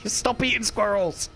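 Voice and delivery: slow, laughing through the words; laughing tease. Real, not acted. Teasing the squirrel-eating friend, laughing. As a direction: giggle it out as a tease.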